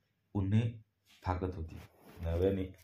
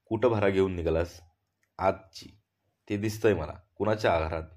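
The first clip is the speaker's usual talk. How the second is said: guard's interrogation; 4 dB louder than usual. Acted. Guard questions a load-bearer.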